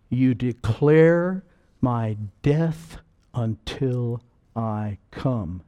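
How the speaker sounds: slow, solemn words of Jesus; solemn quote. Acted. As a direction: intone it slowly like scripture.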